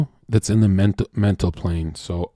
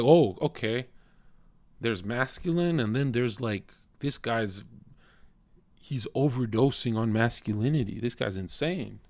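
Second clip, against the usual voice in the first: mock woman; 8 dB quieter than usual. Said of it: "she's designed to be like".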